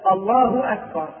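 الله ending in a plain hu, then أكبر; no w between الله and أكبر; correct takbir. Shown as a demonstration. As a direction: clean Allaahu, then a separate akbar. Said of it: "والصواب أن يقول".

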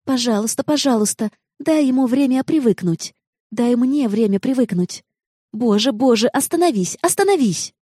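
rising to a high, desperate cry; frantic pleading. A narrator's reading. Noa begging Jenna to stop the car, growing frantic. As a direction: beg harder and harder to make her stop.

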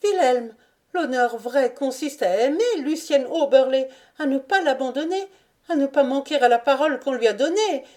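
high, urgent pleading voice; urgent plea. Acted. Lucienne begs Wilhelm not to abandon her, urgent high plea. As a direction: plead with him, pitch held high throughout.

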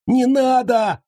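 shrieking captive; wailing cry. A narrator's reading. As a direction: wail it in panic. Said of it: "завопил Копыта".

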